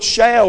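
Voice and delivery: "shall" lifted and held firm; stress on shall. Shown as a demonstration. Preacher to Brother William, stressing "shall". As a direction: press on "shall" as an unbreakable promise. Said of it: "is a promise word".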